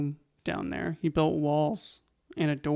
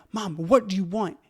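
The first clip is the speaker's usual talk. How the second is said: mildly exasperated retold outburst, a bit higher and louder; upset; 3 semitones higher, 4 dB louder than usual. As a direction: act out losing patience with mom. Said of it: "I get upset".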